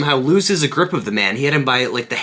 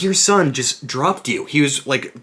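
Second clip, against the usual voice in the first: raised-pitch, incredulous retold protest; mock indignation; 3 semitones higher than usual. Rescuer protesting to the old man he saved, mock indignant. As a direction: plead your case with comic outrage.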